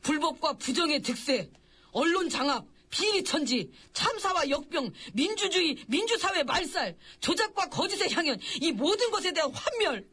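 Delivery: declaimed grievances, building in intensity; impassioned acting. Aide lists the nation's ills to the king, impassioned. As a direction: hit each item with dramatic conviction. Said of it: "격정적으로 연기를 하는지".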